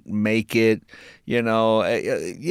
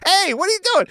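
indignant surprise; faster than usual. Retold or imitated. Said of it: "I'm thinking".

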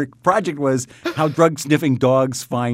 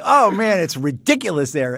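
mock complaining; 5 semitones higher than usual. Quoting someone complaining about city.

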